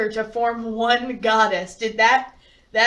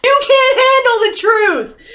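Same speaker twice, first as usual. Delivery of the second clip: full-throated yell, slow and much higher; mock movie bellow; 11 semitones higher, 11 dB louder, slower than usual. Bo yelling at Edith, hammed-up movie bellow. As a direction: roar the famous line like a courtroom showdown.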